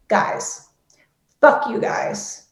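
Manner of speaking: slow, breathless whispered fuck you; whispered curse. Retold or imitated. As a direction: hiss it under your breath, drawn out. Venting anger at people, trailing.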